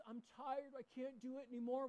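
mock tired little boy at the hill; tired kid complaining. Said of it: "he says".

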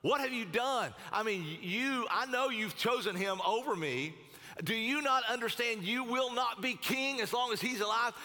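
angry tirade. Acted. Saul berates his son for choosing David, angry. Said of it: "He was so angry".

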